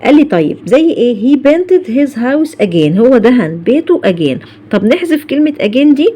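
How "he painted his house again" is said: slow, deliberate English example; careful dictation pace; slow model sentence. Shown as a demonstration. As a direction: read it slowly for students. Teacher models example sentence slowly.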